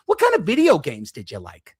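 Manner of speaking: lightly mocking interviewer, voice leaping up mid-question; mock-interested questioner with a swooping tune. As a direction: imitate a silly casual question. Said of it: "They're like".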